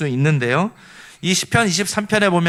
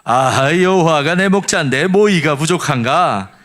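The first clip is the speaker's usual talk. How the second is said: Pyongan dialect; 4 dB louder than usual. Shown as a demonstration. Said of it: "평안도 버전은요".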